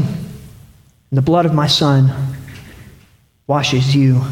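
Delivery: low, slow, solemn divine voice; hushed, measured pronouncement of forgiveness; God speaking tenderly. Acted. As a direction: drop low and let each phrase rest. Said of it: "I hear the words saying".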